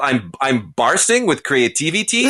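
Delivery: lightly mocked fake Italian accent; a hint of bogus Italian accent; Jared Leto's Italian accent. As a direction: quote it in a dubious Italian accent. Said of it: "that's not an Italian accent".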